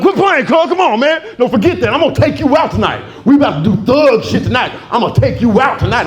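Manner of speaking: high, excited hyped-up cousin; hyped cousin promising a night out; cousin's voice. Retold or imitated.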